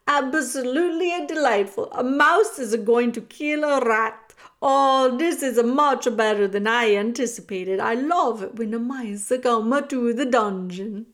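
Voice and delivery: loud, relishing rat voice; amused villain savouring the show; gleeful villainous rat. A narrator's reading. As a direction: delight loudly in the coming fight.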